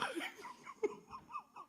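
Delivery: high, quiet wheezy giggle; stifled laugh. Real, not acted. Host giggling while killing time, quiet high laugh.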